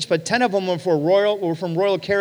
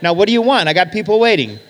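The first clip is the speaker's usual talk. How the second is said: brusque and louder, hurrying him; impatient waitress; 5 dB louder, faster than usual. Retold or imitated. Waitress hurrying the pastor along, brusque. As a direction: snap it out like a busy server.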